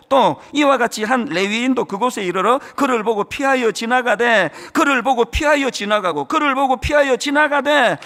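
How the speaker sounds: measured, solemn reading of the Bible text; 성경 봉독하듯 엄숙하게; scripture reading. Acted. Reads scripture aloud.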